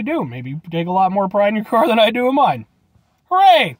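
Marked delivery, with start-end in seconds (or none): 3.3-3.8 loud cheer. Real, not acted. Cheerful sign-off.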